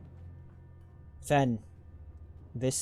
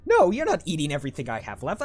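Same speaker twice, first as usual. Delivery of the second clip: laughs out, then a fast, higher no; laughing refusal; 4 semitones higher, 6 dB louder, faster than usual. Real, not acted. Player laughing off a companion wanting to eat the supplies, laughing. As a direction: laugh the no off quickly. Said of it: "I need to make sure".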